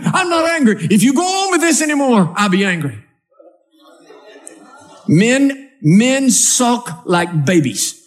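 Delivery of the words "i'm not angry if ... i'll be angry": high, huffy warning; sulky husband. Acted. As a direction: sulk and threaten. Sulking husband voiced in quarrel.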